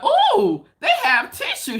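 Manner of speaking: high, loud thrilled squeal over a find; excited squeal. Retold or imitated. Daughter at the store, thrilled and squealing. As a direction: squeal like finding treasure. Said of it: "She sounds so happy".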